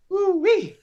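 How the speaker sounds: high, loud whoop letting off steam; fired-up whoop. Real, not acted. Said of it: "'cause I'm fired up".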